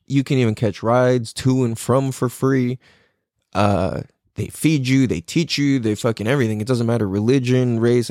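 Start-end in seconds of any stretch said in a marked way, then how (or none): none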